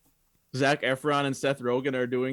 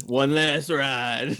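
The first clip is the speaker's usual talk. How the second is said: very slow mock-solemn action line; a light slowed-down Dom Toretto imitation; Dom Toretto impression; much slower than usual. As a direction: stretch it out like a trailer tagline. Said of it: "Dom Toretto would say".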